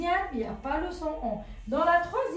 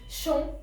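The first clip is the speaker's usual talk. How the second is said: "champignon" in three beats: CHAM, PI, GNON; split into syllables; 2 semitones higher, faster than usual. Shown as a demonstration. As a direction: pause after each syllable of "champignon". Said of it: "déjà quand je parle, je dis".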